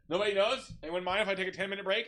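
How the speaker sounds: high, loud, hurried announcement; mock officer addressing the troops; imitated lieutenant. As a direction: call it out quickly to the group. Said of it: "He goes".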